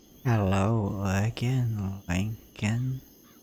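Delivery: put-on soft, raspy old woman voice. Old Mama Bone greets Lincoln at the window, in Old Mama Bone's soft raspy voice. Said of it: "You hear a soft, raspy voice".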